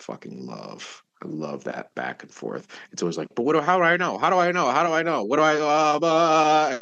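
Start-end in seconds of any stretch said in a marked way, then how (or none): 3.3-6.8 high, frantic repeated pleading; mock panic, running the questions together; anxious student. Student badgering the Buddhist teacher, hammed-up anxious fretting.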